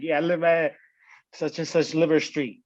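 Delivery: put-on kid voice. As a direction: play a proud small child. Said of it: "you was out here talking about".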